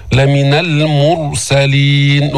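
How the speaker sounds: slow, measured chanting of the verse; Quran recitation. Shown as a demonstration. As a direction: recite it slowly with a heavy raa. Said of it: "teacher recites Quran verse".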